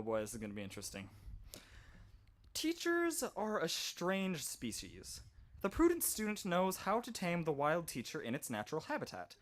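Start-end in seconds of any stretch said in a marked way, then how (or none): 2.5-9.4 nature documentary. Pretend. Reading the book like a wildlife narrator.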